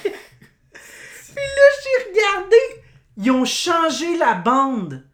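high, cracking laugh-cry through the words; can barely get it out for laughing; laughing disbelief. Real, not acted. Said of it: "Oh my god". (incrédulité en riant, voix qui casse)

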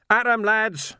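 high, loud rallying shout; yelling a battle cry. Acted. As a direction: call the men to the fight. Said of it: "he yelled".

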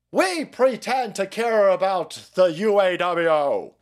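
mock outraged Democrats. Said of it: "lefty criminals like".

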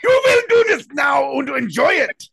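shouted high, harsh military order; German interrogator. Pretend. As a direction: bark it like a stern interrogator.

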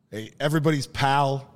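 hammed-up Boston barfly; imitated thick Boston accent. A traveler imitating locals at the bar, mock Boston accent. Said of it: "thick Boston accents".

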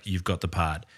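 low, soft imitation of a director; understated offer. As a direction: hand over the role quietly, without fuss. Repeats director's immediate job offer.

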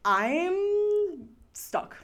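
high-pitched panicked wail; panicked high cry. Retold or imitated. Alone in the swamp, she wails she's stuck.

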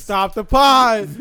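slow, drawn-out command; mock halt order. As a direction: stretch out the order to stop. Calls a halt to the joke.

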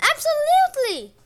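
high, loud eager yes; eager exclamation. A narrator's reading. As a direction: burst out with eager agreement. Gaia eager reply.

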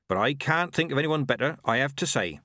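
put-on cheerful, high old countrywoman; chirpy village midwife; old witch voice. Nanny Ogg.

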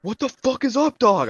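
high, loud mock bafflement; baffled outburst. Acting out someone falling for the Updog joke, baffled outburst.

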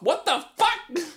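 high, slow disbelief; stunned what-the-hell reaction; shocked. Real, not acted. Shocked by text read aloud.

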